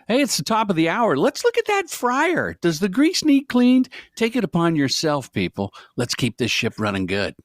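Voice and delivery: high, hammed-up PA announcer voice; in-house announcer. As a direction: bark it like a cheesy store intercom. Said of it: "I did the radio spots... the back of the house announcements".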